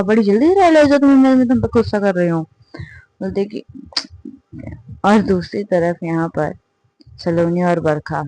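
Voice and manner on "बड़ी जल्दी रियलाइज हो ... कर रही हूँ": higher, fast sarcastic jab; fast sarcastic angry reply; sarcastic retort. Acted. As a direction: snap back with mock praise. Angry partner mocking drunk girl.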